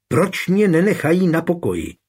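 high despairing outburst, stress on mě; desperate cry. A narrator's reading. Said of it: "vykřikla zoufale".

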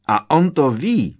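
cried out. A narrator's reading. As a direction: shout it in wild glee. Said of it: "vykřikl ještě". (šílený výkřik)

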